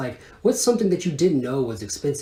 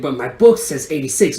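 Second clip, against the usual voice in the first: usual speaking voice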